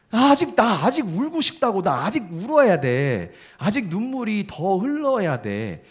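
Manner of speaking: high, loud plea that slows into a tearful drag; pleading to keep crying. Acted. Grieving believer pleading with the comforter, high and loud, slowing down. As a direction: beg to be let cry, voice rising then slowing.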